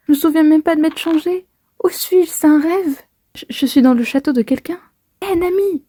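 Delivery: voiced heroine, alarmed; Nami panicking. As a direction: play Nami lost in a strange castle. Reads Nami's lines.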